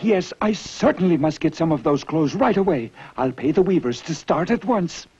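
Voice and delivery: high, eager royal voice; vain emperor. A narrator's reading. Narrator voices the emperor deciding to buy clothes. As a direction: play the vain emperor plotting.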